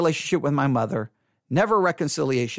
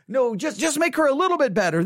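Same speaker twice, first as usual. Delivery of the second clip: higher-pitched bargaining plea; pleading prayer; 7 semitones higher than usual. Retold or imitated. Praying son bargaining with God for his mother, pleading. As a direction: scale the plea down, still urgent. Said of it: "but I was praying".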